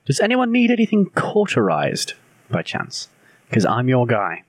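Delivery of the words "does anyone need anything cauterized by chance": pitched way up, eager to help; high, keen helper voice; high eager offer. Acted.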